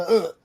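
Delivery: mock vomiting noise; short pretend spew sound; imitated retch. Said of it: "did he have a full on spew?".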